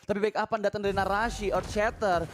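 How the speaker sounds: fast, high hype shout-casting; excited play-by-play. Acted. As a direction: call the teamfight like it's a title match.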